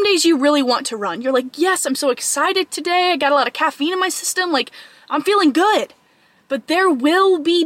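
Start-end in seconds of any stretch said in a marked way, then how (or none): 1.6-5.9 a bit higher, quick and upbeat; mildly hyped-up inner voice; excited self-talk. Acted. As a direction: act out being pumped to go. Acting out an excited good day.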